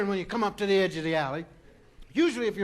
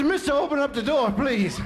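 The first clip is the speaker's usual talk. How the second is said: breathless plea; 5 semitones higher, 4 dB louder than usual. Retold or imitated. Begging the trolley driver.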